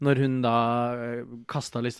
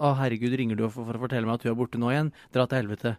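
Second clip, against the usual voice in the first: ordinary talk, nothing marked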